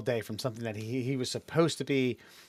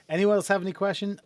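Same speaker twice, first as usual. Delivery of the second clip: higher-pitched teacher imitation; grade school teacher; 7 semitones higher than usual. Teacher to a class of kids, mock schoolteacher call. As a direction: lightly mimic a teacher polling class. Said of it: "the old grade school teacher".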